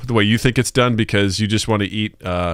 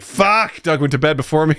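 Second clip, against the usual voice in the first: annoyed wife; 6 semitones higher than usual. Retold or imitated. Wife annoyed he sleeps first.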